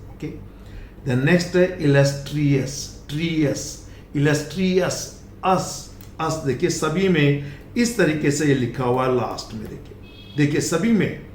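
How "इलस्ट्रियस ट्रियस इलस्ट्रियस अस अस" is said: इलस्ट्रियस ending in a light अस; correct pronunciation. Shown as a demonstration. Teacher drills the next word, correct pronunciation. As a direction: end इलस्ट्रियस in tree-us, no y. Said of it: "this is always us".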